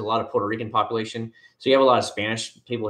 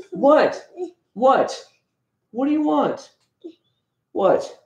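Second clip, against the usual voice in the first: calling to son; much slower than usual. Real, not acted. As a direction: parent calling out what. Answering his son off-mic.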